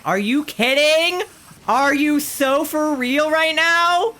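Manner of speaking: high, indignant yelling; real outrage. Real, not acted. Player about to miss a chance to battle, outraged. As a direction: protest in a high, incredulous yell.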